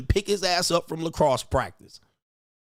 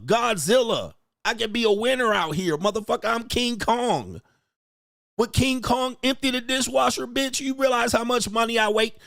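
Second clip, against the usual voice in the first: mock furious rant; 6 semitones higher than usual. Husband ranting at his wife over diapers and dishes, outraged. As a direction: play the husband blowing up over chores.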